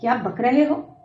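a mild mock yell at the nonsense; shouted. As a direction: shout him down, irritated. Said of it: "چیخ کر کہا".

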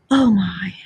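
breathless little cry of wonder; awed exclamation. Acted. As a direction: Mole marvels at the scene. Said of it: "and gasp".

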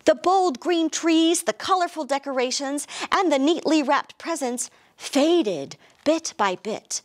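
lively storybook narration; animated picture-book reading; reading to children. A narrator's reading. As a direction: read it like storytime for little kids.

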